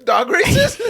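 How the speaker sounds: high, loud disbelieving echo; surprised echo. Real, not acted. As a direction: throw the phrase back in disbelief.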